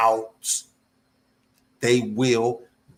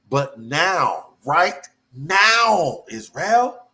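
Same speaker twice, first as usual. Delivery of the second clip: excited; 5 semitones higher, slower than usual. Real, not acted. Preacher stirring up his congregation, excited and high. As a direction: let the excitement lift the voice. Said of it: "I'm a little excited".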